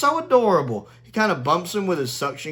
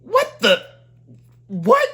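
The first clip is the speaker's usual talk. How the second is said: baffled Dalek; 12 semitones higher, 4 dB louder, slower than usual. Retold or imitated. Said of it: "the Dalek over there going".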